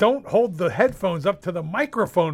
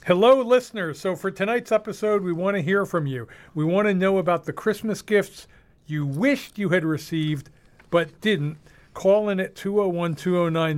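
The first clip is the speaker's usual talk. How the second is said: radio host read; 3 semitones higher than usual. Acted. Reading scripted radio show intro.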